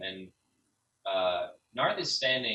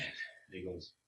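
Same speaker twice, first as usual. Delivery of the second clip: ordinary talk, nothing marked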